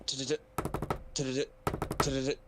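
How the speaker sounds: quick little tongue-tapped stutters; hop-skip patter. Acted. Player shows how the character hop-skips, pattering sounds. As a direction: imitate tiny skipping feet in short bursts. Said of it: "I'm doing hop skip".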